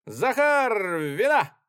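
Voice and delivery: ringing, high, loud call for wine; cheerful shout. Acted. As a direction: shout it merrily across the flat. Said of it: "крикнул весёлым голосом, звонко пронесшимся". (весёлый звонкий крик)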